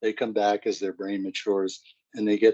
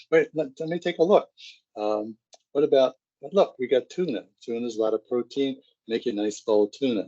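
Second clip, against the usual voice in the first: eager pleasing mom; 2 semitones higher, faster than usual. Retold or imitated. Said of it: "and saying".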